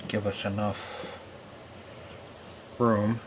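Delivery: usual speaking voice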